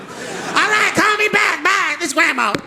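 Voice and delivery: a mild fading granny goodbye; grandma signing off. Retold or imitated. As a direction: sign off sweetly like grandma. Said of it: "her trying to hang the phone up".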